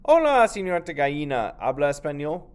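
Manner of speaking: put-on high, loud child voice calling out; Nieto's eager greeting. Child Nieto greeting the donkey, loud and high. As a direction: call out brightly to the donkey.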